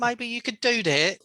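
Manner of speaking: high teasing put-on voice; mock high voice.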